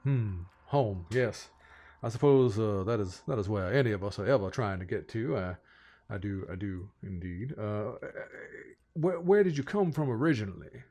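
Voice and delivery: lightly voiced folksy Southern gentleman, impressed; rambling, genteel Southern host; courtly Southern lord president. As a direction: welcome them with fussy Southern courtesy. Game master plays Samuel.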